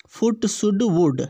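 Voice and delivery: फुट, शुड, वुड with a short "u"; same short U. Shown as a demonstration. Teacher lines up the matching words, short u in फुट, शुड, वुड. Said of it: "एक जैसे उच्चारण है".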